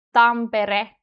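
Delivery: "Tampere" with a brief tapped r; weaker R. Shown as a demonstration. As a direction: flick the r lightly in "Tampere". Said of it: "R in Tampere sounds weaker".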